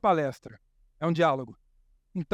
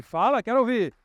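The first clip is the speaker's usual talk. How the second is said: louder; 3 semitones higher, 4 dB louder than usual. Shown as a demonstration. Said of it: "Mais alto".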